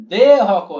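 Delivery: "দে" loud and held long; drawn-out syllable. Shown as a demonstration. Teacher showing two beats, "দে" loudly long-drawn. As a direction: stretch "দে" before "হক". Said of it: "দে অনেক টান".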